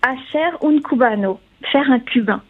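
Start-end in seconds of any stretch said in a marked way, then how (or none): 0.0-1.4 Spanish phrase in a lightly done Spanish accent; a modest go at a Spanish accent. Shown as a demonstration. Columnist gives the Spanish term on air, light Spanish accent. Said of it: "excusez pour mon accent espagnol".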